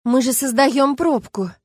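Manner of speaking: slow, high whine of dismay; whimpering. A narrator's reading. Люба whimpers at the stuck car, slow and high. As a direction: whimper it out slowly, close to tears. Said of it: "проскулила Люба".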